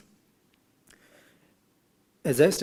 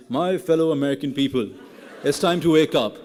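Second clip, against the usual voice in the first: mock American presidential address, raised and louder; American accent; 3 semitones higher, 4 dB louder than usual. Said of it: "in his American accent and says".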